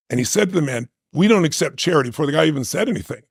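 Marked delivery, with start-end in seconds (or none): 1.1-2.1 proud refusal. Retold or imitated. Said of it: "He got angry".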